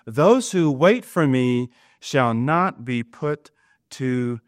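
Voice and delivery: slow verse trailing off to near silence; solemn reading, fading out. Acted. Preacher closing the verse for the congregation, slow and fading. Reads scripture slowly, fading.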